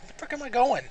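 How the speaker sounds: high, loud exasperated yelp; frustrated outburst. Real, not acted. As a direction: blurt it out, lost and annoyed. Frustrated at getting lost.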